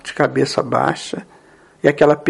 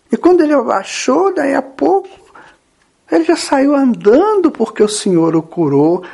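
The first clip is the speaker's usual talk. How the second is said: earnest, often higher-pitched coaxing; Pedro; 5 semitones higher than usual. Acted. Pedro reminds weeping Jesus of the cures, pleading. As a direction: coax with wonder, rising, then settle into a tender question. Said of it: "faz mais uma tentativa".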